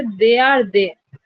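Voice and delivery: "they are" stressed, final "they" let fall; slow trochee demo, strong "they are", weaker "they"; stress on first THEY. Shown as a demonstration. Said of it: "तो first देर पे". (पहले "they are" पर ज़ोर)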